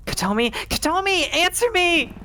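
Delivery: high, loud, pleading yell; frantic calling; desperate shouts. Acted. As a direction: shout the name, begging for an answer. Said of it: "my desperate shouts".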